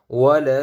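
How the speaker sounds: "ওয়া লা" with the final vowel held very long; three-alif stretch. Shown as a demonstration. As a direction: chant out the "লা" of "ওয়া লা". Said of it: "তিন আলিফ টান আছে". ("ওয়া লা" তিন আলিফ টেনে)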